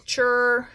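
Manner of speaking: "chur" as one isolated syllable; sounded out. Shown as a demonstration. Teacher giving second syllable of moisture, sounded out. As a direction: set "chur" apart on its own beat. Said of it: "and then my second syllable".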